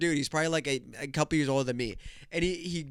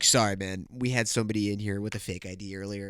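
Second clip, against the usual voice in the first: imitating apologetic manager; 6 semitones lower than usual. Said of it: "and then he was like".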